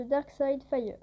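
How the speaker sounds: English name in a French accent. Real, not acted. French YouTuber reading out a follower's English username, French-accented English. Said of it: "Désolée pour mon accent d'anglais".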